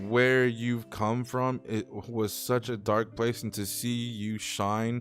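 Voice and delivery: slow and moved, holding back tears; emotional. Real, not acted. Praising best friend's recovery, close to tears. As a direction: speak slowly through rising emotion. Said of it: "it makes me emotional".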